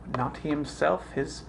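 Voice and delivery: mounting dramatic protest; building indignation. Acted. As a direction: list each wrong, building to an outburst. Hamlet's list of wrongs builds.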